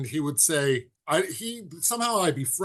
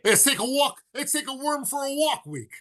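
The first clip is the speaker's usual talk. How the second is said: mock Miyagi; 9 semitones higher than usual. Miyagi line quoted with raised pitch.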